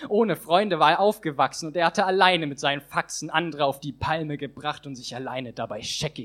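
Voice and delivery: rhythmic rhyming poem performance; slam poem recitation. Acted. Poet reciting his slam text on stage, rhythmic and building. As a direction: perform the verses with rising drive.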